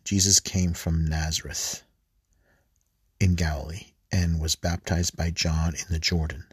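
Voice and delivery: unhurried lector reading; scripture reading. Acted. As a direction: proclaim the passage to listeners. Reads the Gospel passage aloud.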